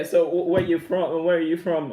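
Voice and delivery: loud, high call to the chat viewers. Real, not acted. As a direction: shout the question out to the chat. Calling out to live chat viewers.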